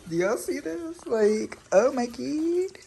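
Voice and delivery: high squeal of delight; squealing excitement. Real, not acted. Showing her favorite plant to viewers, high thrilled squeal. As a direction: gush at the plant, voice way up.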